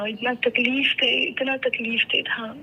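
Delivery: "اتنا تکلیف دہ" said slowly, leaning on "اتنا"; slow, heavy stress on "اتنا"; slow emphasis. Real, not acted. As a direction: drag out "تکلیف دہ" as if still hurting. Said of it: "بڑا کٹھن سفر تھا".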